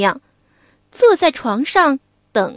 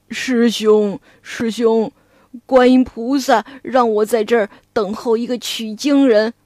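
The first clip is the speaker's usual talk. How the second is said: pig demon; 4 semitones lower than usual. Acted. Pig demon asks to meet master.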